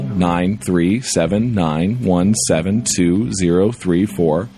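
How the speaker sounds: low, slow recital of digits; monotone, depressed-sounding. Acted. Reader imitating the radio voice reciting numbers, monotone and depressed. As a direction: drone each number out slowly, low-spirited. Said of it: "monotone, depressed-sounding voice".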